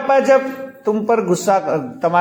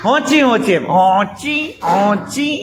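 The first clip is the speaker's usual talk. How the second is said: donkey bray imitation; slower than usual. Shown as a demonstration. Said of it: "गधेड़ो आवो आवाज निकाले".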